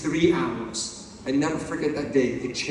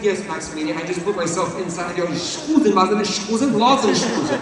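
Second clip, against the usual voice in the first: put-on German lady accent; 2 semitones higher, 3 dB louder than usual. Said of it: "is the German lady".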